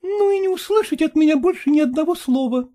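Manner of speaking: high, final declaration; voiced wife, done talking; resolute wife. A narrator's reading. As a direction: declare it settled. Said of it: "порешила Катерина Петровна".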